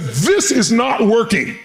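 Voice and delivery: high, drawn-out emphatic declaration; imitated Reagan. President halting a heated argument, imitated firm declaration. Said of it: "Mister Reagan stood up and said".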